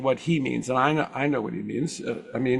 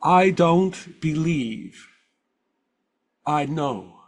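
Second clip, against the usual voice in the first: put-on Swiss German accent; much slower than usual. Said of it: "I will give another quote from that same interview".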